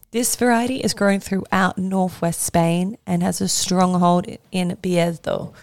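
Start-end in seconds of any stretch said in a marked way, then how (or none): 4.5-5.5 slow careful Spanish "Bierzo"; Spanish pronunciation. Shown as a demonstration. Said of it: "my Spanish accent is probably not the best".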